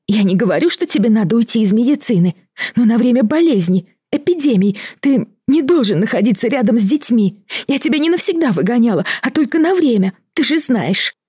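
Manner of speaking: high, fast, rising pleading; agitated plea. Acted. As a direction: defend herself in rising panic. Wife pleads defensively, rising. (взволнованно, оправдываясь)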